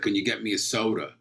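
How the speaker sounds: imitated childhood New York accent. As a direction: ask like a New York kid. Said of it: "I'd say things like".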